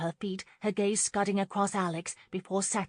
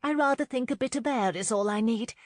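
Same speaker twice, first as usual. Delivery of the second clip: high, loud polite excuse; flustered young woman seeking escape; nervous excuse; 6 semitones higher, 5 dB louder than usual. A narrator's reading. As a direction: excuse yourself with raised pitch. Nervous Lauren excusing herself.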